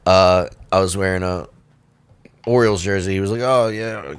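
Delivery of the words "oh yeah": put-on Baltimore accent. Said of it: "comedian from Baltimore".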